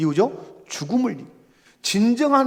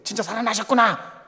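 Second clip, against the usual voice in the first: raised, delighted exclamation; happy cry of realization; overjoyed disciples; 4 semitones higher than usual. Acted. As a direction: voice amazed joy as a disciple. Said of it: "이제 너무 기쁜 거예요".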